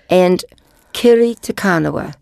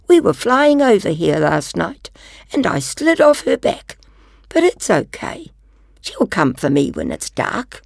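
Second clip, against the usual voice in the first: little dragon voice. Acted. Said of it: "said the little dragon".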